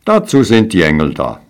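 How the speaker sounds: dismissive. Acted. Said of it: "riefen die anderen zurück".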